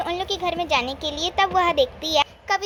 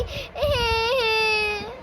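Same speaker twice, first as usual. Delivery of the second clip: put-on child sobbing; 4 semitones higher than usual. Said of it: "और रोने लगती है".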